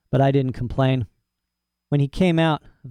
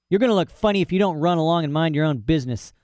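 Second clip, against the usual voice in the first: quick, annoyed retort; dog warning the cat off, fast and annoyed; irritated comeback; 4 semitones higher, faster than usual. Acted. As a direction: fire it back fast at the cat. Dog snaps back at cat.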